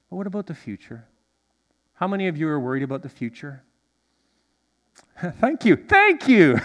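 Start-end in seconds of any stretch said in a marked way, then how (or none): 5.4-6.7 high, loud thanks through laughter; laughing thanks. Real, not acted. Pastor thanking people who admit they are worried, laughing heartily. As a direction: say it twice, laughing, bigger the second time.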